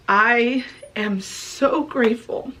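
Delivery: fighting back tears. Real, not acted. Vlogger thanking her Savior and viewers, near tears. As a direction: voice rising and catching as she holds back tears. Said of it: "I'm trying so hard not to cry".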